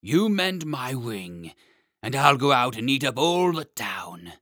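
dragon threatening to eat the town. Acted. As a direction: menace them with a heavy beast voice.

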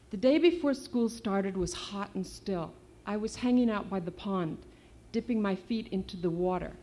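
put-on reading her novel aloud to young listeners; story reading. A narrator's reading. Author reading her novel aloud to kids, storytelling voice. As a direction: read it like a storyteller, steady and clear.

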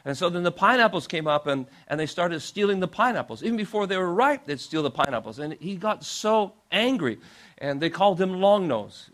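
usual speaking voice

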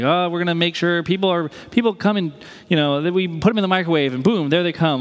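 breezy, hammed-up eagerness; mock problem-solving. Pastor pretending to manage a birth, playfully eager.

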